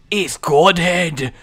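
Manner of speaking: slow, put-on Scottish accent. Gamer naming his starting item, mock Scottish accent. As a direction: slip into a playful Scottish accent. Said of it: "I don't know why I'm Scottish again".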